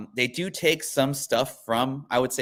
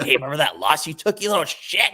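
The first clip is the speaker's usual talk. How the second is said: mock taunt; 5 semitones higher, 3 dB louder than usual. Acted taunt to rib a friend.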